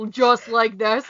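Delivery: slow, a hint of the sultry look; mock sultry pose. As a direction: hold the pose and purr it slowly. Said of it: "when you do that face".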